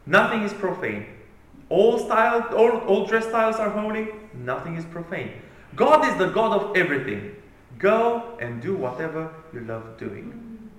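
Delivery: a hint of smug boasting. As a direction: parody the careless creed. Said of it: "it boasts".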